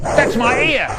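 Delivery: pained cry, pitched high; high yell. Acted. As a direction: yell it in pain. Acted victim yell.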